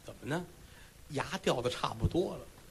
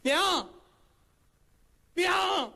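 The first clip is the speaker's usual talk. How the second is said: calling out; 13 semitones higher than usual. Acted. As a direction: call out into the yard for mom. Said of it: "迈步站在院里就喊".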